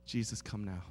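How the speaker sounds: low, soft muttered plea; mock desperate prayer. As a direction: pray under your breath for rescue. Silent prayer while embarrassed.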